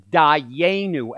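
dayenu said slowly, die-YAY-noo; pronunciation demo. Shown as a demonstration. Teacher showing guests how to say the Hebrew, dayenu pronounced slowly. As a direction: spell out dayenu by ear, slowly and clearly. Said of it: "that word is pronounced".

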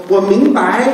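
put-on foreign-accented Mandarin with 明白 in two rising tones; foreigner's Chinese accent. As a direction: mimic a foreigner saying 明白 with full second tones. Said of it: "你看外国人会说".

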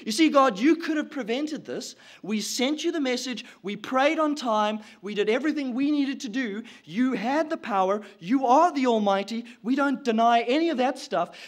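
forceful, insistent accusation; blaming God. Acted. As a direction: build the case against God, hitting the last lines hard. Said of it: "she's insinuating blame".

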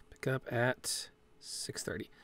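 whispered aside; whispering about the pickup time. Real, not acted. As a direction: breathe it out as a private aside. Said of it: "aside about schedule".

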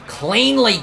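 high, loud cry of urgency; exasperated shout. Real, not acted. Player trying to get around Newman, exasperated shout. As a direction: shout it high, stretched with frustration. Repeats it as pass fails.

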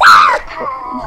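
short, sudden 'ah' yelp; sudden yell. Real, not acted. Player cries out during the game, sudden yell. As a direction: cut in with a startled yell.

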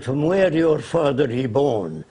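slow, lightly put-on Arab accent in broken English. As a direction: imitate the Arab leader's accent, taking it slowly. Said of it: "He said in his accent".

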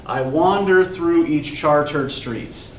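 slow, each beat weighed; scanning the line. Shown as a demonstration. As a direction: read it out slowly, feeling the stresses. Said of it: "figure out a stress pattern".

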